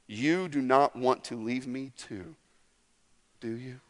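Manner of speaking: brokenhearted Jesus. Retold or imitated. Jesus hurt, soft question.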